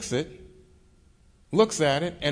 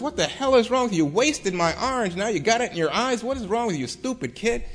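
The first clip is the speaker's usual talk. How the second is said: exasperated scolding, pitched up and quick at first; retold screaming; 6 semitones higher than usual. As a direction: act out an angry outburst, high but not fully yelled. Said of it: "Thurgood Marshall screaming at the boy".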